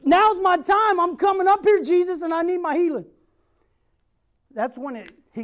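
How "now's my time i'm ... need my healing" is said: loud and high, resolved; determined declaration. Retold or imitated. Bartimaeus calling to Jesus that his time has come, loud and resolute. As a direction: announce it boldly, no more waiting.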